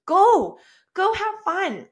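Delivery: high, loud cheering him off; excited urging. Retold or imitated. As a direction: push him out the door happily. Urging husband to go.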